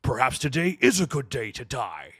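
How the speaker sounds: stern Klingon warrior declaration; Worf. Acted. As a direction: declaim it like a proud Klingon officer. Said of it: "I could do a good Worf impression".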